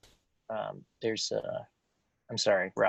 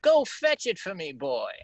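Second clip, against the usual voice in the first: commanding miser; 7 semitones higher, 3 dB louder than usual. Acted. Scrooge orders boy.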